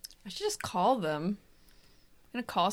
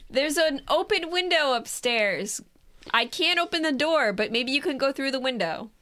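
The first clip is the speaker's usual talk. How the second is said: raised, higher-pitched voice; calling through a window; 4 semitones higher than usual. Acted. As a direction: project to someone over machinery noise. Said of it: "I will try to yell".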